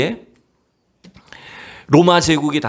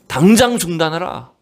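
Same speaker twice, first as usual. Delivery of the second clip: mildly raised, proclaiming command; retold cry; 3 semitones higher than usual. Monk commanding a roaring arena to stop, retold cry. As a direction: lightly imitate a monk crying out an order. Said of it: "막 소리를 치기 시작하는 겁니다".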